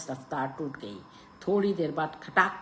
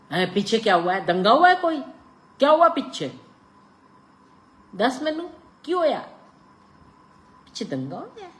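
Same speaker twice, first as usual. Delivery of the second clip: much higher, loud eager questions; anxious crowd; 9 semitones higher, 8 dB louder, faster than usual. A narrator's reading. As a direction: press for news urgently. Platform crowd asks anxiously.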